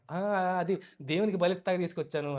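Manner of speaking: imitated fumbling excuse; hesitate, then offer a lame excuse; flustered stumbling. Saul caught out by Samuel, mildly flustered. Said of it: "అప్పుడు తడబడతాడు".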